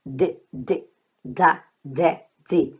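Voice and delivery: "D" as a soft, lightly released DH; short, separated soft "D" sounds. Shown as a demonstration. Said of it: "é esse D H".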